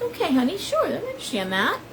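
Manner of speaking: high, softening retold reassurance; placating. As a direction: gently humour him, voice lifted. Soothing an apologetic friend, retold.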